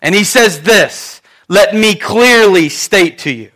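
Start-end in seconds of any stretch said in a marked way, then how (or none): 1.5-3.5 slow, measured declaration; very serious. Acted. Peter to the men who killed Jesus, serious. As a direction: spell it out word by word. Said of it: "My mom and dad got very serious".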